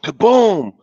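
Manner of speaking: loud, high-swooping kaboom; booming thunder. A narrator's reading. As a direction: boom it out like a thunderclap. Thunder in the story.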